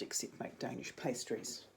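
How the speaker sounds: whisper. Real, not acted. Joking confession aside.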